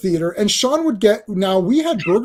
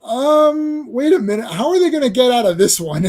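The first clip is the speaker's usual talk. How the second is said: mock surprise; 6 semitones higher than usual. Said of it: "Even I was like".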